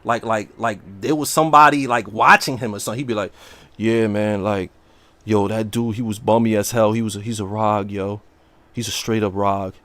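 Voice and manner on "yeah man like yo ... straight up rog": a lower, hushed imitation of the streamer; mock whispery streamer. Streamer mocked for whispering on stream, imitated lower. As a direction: mimic him talking like someone's listening in the house. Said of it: "he be talking like he whispering".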